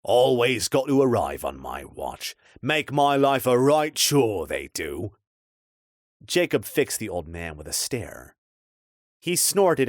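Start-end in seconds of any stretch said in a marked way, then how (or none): 0.0-5.2 put-on old watchman griping about his lot; lightly voiced grumbling old man; grumpy old man. Old man complains about strangers.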